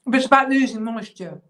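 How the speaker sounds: talking through a mouthful of cheese; words round a bite of food; mouth full. Real, not acted. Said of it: "talking with my mouth full".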